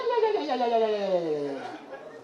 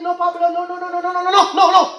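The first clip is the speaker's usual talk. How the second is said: general begging no; 4 semitones higher, faster than usual. Retold or imitated. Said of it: "Three guys stood up and said".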